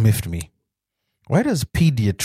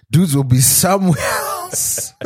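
laughing; 7 semitones higher, slower than usual. Real, not acted. Joking through laughter.

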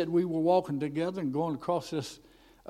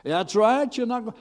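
high, louder devil cutting in; acted devil's insistent put-down; taunting devil; 7 semitones higher, 5 dB louder than usual. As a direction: jeer it as the devil, pitched up. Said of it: "the devil, you know, evil spirits".

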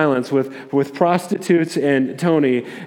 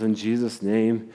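closing prayer; 5 semitones lower, 4 dB quieter than usual. Retold or imitated. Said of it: "he closes and says".

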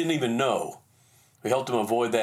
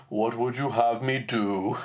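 flustered, quiet; 3 semitones lower than usual. Retold or imitated. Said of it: "now flustered, asked quietly".

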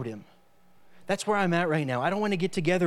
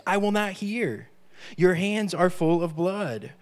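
scripture declaimed. Acted. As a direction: thunder the verses out like a prophet. Preacher reads Isaiah aloud.

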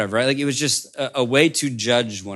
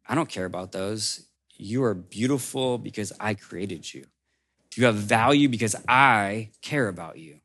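tender reassurance. Acted. Woodmaker reassures Max tenderly.

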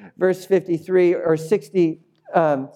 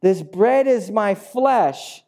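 slow, raised-pitch declaration; Jesus straining to explain; 6 semitones higher, slower than usual. Acted. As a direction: spell it out slowly and emphatically. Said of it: "now he changes analogies".

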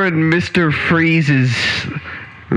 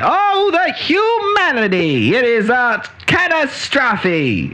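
newsreel announcer; 5 semitones higher than usual. Retold or imitated. Radio reporter quote.

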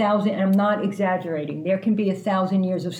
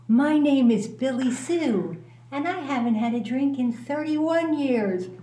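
mimicking old-timer; 5 semitones higher than usual.

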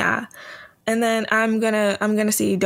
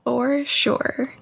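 sarcastic, higher-pitched agreement; 4 semitones higher than usual. Real, not acted. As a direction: agree as if you don't believe a word. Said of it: "saying that in your sarcastic voice".

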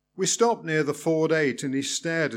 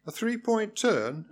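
amused, disbelieving echo; surprised question; 7 semitones higher than usual. Acted. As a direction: repeat it with a laugh. Learner surprised, laughing.

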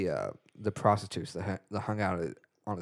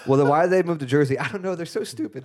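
Agador impression; 3 semitones higher than usual. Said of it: "you're starting to sound more like Tommy Wiseau".

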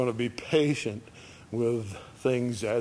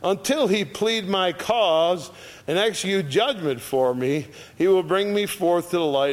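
raised, declamatory verse reading; scripture reading; 6 semitones higher, 5 dB louder than usual. Acted. Preacher reads Micah's hope to the congregation, declamatory. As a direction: proclaim the verse in a higher voice.

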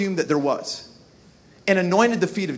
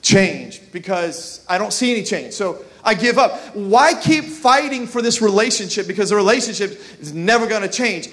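discouraged mantra. Retold or imitated. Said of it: "the mantra for being discouraged".

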